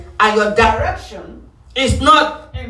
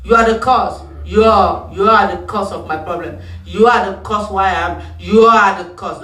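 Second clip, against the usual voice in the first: mock blaming; 3 semitones lower than usual. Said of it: "You know how we do it?".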